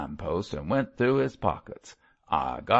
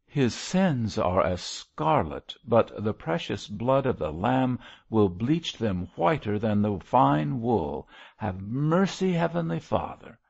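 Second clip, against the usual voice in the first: raised, solemn preacher's plea; fervent prayer; 3 semitones higher than usual. A narrator's reading. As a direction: implore God for a lost sinner. Baltic goes on praying.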